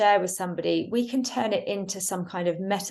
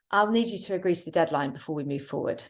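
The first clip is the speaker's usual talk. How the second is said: confident statement; faster than usual. Shown as a demonstration. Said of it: "you are sharing information".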